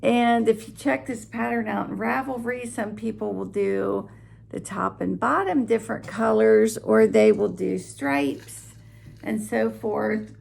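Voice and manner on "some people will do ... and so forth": talking with a dry mouth; parched, sticky-mouthed speech. Real, not acted. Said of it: "I get a very dry mouth".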